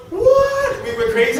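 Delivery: high, loud shriek of disbelief; screaming what. Retold or imitated. Winners on stage, screaming in delighted disbelief. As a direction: shriek it, overjoyed.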